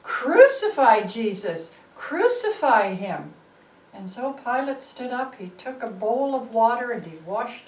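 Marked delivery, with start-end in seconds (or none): 0.0-3.3 loud, slowing at the end, mob roar; loud crowd shout. Acted. The crowd demands Barabbas from Pilate, shouting loud. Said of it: "the people shouted louder".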